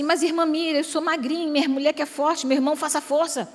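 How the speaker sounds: a pretend wife answering the preacher back, half teasing; protesting wife. Preacher voices a skinny wife answering back, mock protest. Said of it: "Aí você fala assim".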